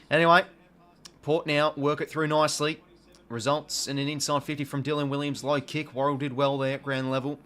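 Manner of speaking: sportscaster energy calling the match; live footy commentary. Acted. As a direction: call the game like a TV commentator.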